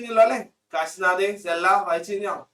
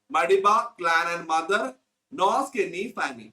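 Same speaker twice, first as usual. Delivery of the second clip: slow dictation; much slower than usual. Shown as a demonstration. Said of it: "dictating text to class".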